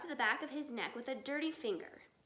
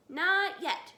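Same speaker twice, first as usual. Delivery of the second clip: higher, louder shout; 5 semitones higher, 7 dB louder than usual. A narrator's reading. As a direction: call it across. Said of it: "shouted Bogus".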